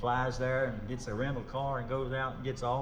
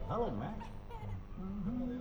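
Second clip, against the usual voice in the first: impression of a singer; 9 semitones higher, 8 dB quieter than usual. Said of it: "a singer".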